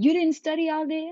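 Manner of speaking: loud, high-pitched disbelief; incredulous teacher. Retold or imitated. Teacher to pupil who didn't study, incredulous. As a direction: mimic a scolding teacher, voice leaping up.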